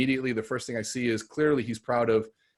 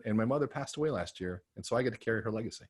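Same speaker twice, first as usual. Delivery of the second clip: quiet grief; 6 dB quieter than usual. Retold or imitated. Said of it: "I get emotional".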